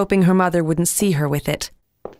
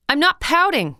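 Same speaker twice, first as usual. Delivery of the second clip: mild snap; 11 semitones higher than usual. A narrator's reading. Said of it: "she snapped".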